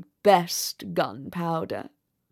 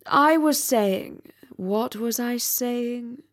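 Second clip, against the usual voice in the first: pompous rocket; 3 semitones higher, slower than usual. Acted. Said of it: "continued the Rocket".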